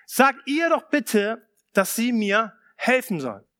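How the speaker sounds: mild exasperated appeal to Jesus; pleading complaint. Retold or imitated. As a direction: lean on "Sag" like a fed-up sister. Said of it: "sie sagt zu ihm".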